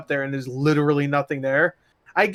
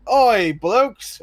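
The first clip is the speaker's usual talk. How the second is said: higher, lightly voiced British bloke; game character intro quote; 6 semitones higher, 4 dB louder than usual. Player mocking a game character's intro quote, lightly voiced. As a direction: call out a mock character catchphrase. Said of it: "They'll be like".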